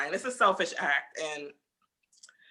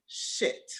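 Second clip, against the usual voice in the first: a hushed, caught-out curse under the breath; mock whispered curse; 6 dB quieter than usual. Boyfriend caught out by screen record, whispering. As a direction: breathe it out like he's been caught.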